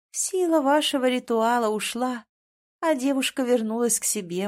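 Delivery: lightly voiced doting grandmother; mild singsong explanation to a dear grandson; tender grandmother.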